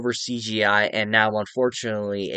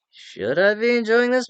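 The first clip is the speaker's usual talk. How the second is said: raised questioning voice; 10 semitones higher than usual. Retold or imitated. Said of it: "you're like".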